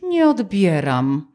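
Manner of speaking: very slow, drawn-out mock refusal; pointed snub. Sulking friend ignoring a phone call, dismissive. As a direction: stretch it out, coolly ignoring the caller. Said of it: "takie olewanie ciebie".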